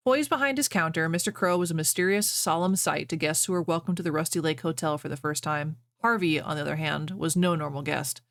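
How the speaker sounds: steady storyteller read-aloud voice; story reading. Acted. Reads fan fiction aloud.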